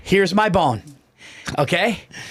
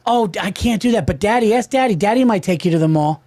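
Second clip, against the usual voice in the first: mock sweet voice; 3 semitones higher than usual. Mimicking spouse passing the job.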